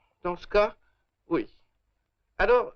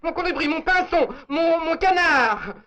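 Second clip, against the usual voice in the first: fake lover; 8 semitones higher than usual. Fake lover's endearments for police.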